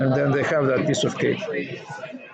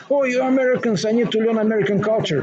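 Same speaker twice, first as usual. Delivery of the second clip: Borat impression; 6 semitones higher than usual. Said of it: "you remember he comes to you".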